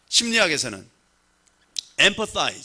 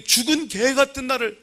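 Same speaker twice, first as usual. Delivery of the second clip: tearful reading; 6 semitones higher, 3 dB louder than usual. Shown as a demonstration. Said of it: "엉엉 울면서 이렇게 읽을 수 있어야 돼".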